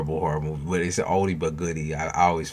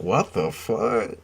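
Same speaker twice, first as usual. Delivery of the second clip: baffled viewer; 4 semitones higher, slower than usual. Retold or imitated. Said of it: "They're like".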